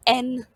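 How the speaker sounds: letter एन called out high and loud; stressed letter. Shown as a demonstration. Teacher naming the silent letter, loud and high. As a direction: punch the letter एन. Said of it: "का sound जो है वो नहीं लिया जाता".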